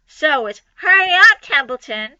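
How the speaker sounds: a light mock of the pig's high plea; mocking Wilbur. Templeton lightly mimicking Wilbur's high hurry. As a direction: mimic Wilbur to tease him. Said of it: "He began imitating Wilbur's voice".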